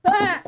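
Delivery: short, high yelp of alarm; startled yelp. Real, not acted. Player dropping the controller, startled yelp. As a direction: yelp as something slips away.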